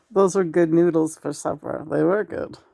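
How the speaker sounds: playful imitation of partner's voice; a hint of someone else's voice; voice impression. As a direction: lightly mimic the other person's voice. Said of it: "you're doing my voice again".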